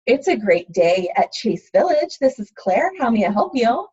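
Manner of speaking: a smiling receptionist answering the phone; customer service voice. Shown as a demonstration. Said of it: "I sound super friendly. It's my phone voice".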